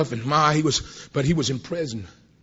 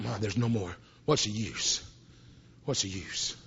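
despairing; 8 semitones lower, 10 dB quieter than usual. Acted. Peter despairing after denial.

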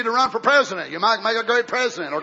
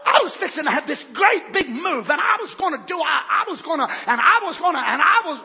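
mock stammering; 5 semitones higher than usual. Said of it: "You just interrupted my revival".

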